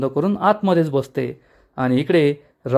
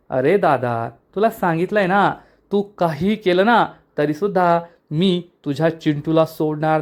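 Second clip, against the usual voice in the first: lightly raised, boastful villain confession; villain brother boasting of ruining the family, lightly voiced; a hint of gloating villain. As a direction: brag about the crime, lightly voiced. Villain taunts captive brother.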